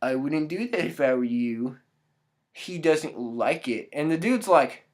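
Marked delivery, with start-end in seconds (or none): 0.0-3.9 a hint of a cryptic seer; mysterious lady. Mystery woman warning the dude, low and hushed. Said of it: "lady is like".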